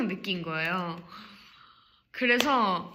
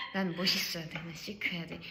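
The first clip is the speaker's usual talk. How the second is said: low, subdued mock-chic self-talk; cool inner voice; 5 semitones lower, 9 dB quieter than usual. Leader telling herself to be chic, low cool murmur. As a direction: say it low and quiet, playing cool. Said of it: "뭔가 이런 게".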